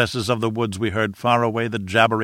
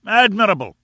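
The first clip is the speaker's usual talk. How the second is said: much higher, loud delighted cry; exclaiming higher; 10 semitones higher, 6 dB louder than usual. A narrator's reading. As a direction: soar up with delight. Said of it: "cried Challenger".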